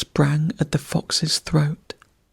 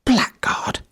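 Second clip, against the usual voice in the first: high, hissed "Blackguard!"; weasel hiss; 8 semitones higher than usual. A narrator's reading. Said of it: "the weasel hissed".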